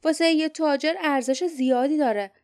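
lightly voiced companion puzzling over the untouched city; uneasy warrior. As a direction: lay out the clues, growing uneasy. Barda reasons uneasily.

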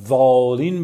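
والین with a long, stretched آ; drawn-out vowel. Shown as a demonstration. Trainer mimics fussing over prayer recitation, drawn-out والین. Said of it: "مد داره بکشم".

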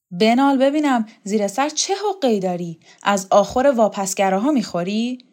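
lifted, accusing questions; acted needling interrogation; hostile demand. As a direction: press her for a confession.

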